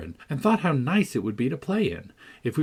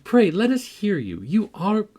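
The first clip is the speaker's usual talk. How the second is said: high, louder mock admiration; teasing encouragement; 6 semitones higher, 4 dB louder than usual. A narrator's reading. Catherine urging the lad to read aloud, high and teasing. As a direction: egg him on in a lifted, girlish voice.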